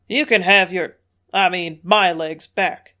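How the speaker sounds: loud, slowed growl of a demand. A narrator's reading. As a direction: growl it out, angry. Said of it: "growled Jake".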